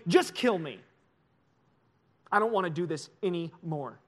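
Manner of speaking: outburst collapsing into weary resignation; despairing surrender. Acted. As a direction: drop the fight and give up, drained. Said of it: "Elijah says it like this".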